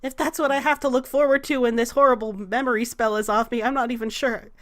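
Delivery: lightly voiced worried man; a touch of dread in the protest; anxious Salvador. Sal dreading his memories returning, mildly anxious.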